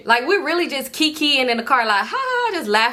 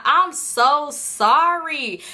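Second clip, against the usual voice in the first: laughing apology; 5 semitones higher, much slower than usual. Retold or imitated. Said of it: "Now I'm just laughing".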